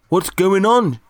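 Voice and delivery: high, loud alarmed shout. Acted. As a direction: yell it over the rumbling cave. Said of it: "shouted Toderick above the noise".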